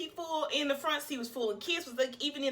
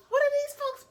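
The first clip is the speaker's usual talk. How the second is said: road rage; 14 semitones higher than usual. Retold or imitated. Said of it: "I got road rage".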